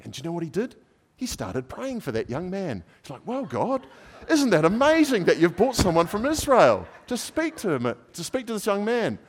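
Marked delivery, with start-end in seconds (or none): 3.2-9.2 high, loud pleading prayer to God; fervent prayer. Retold or imitated. Businessman praying aloud for the young man, high pleading voice.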